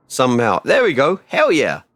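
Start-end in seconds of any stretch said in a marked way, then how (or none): none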